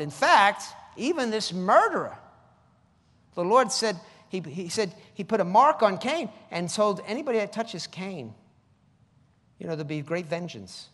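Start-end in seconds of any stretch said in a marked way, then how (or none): none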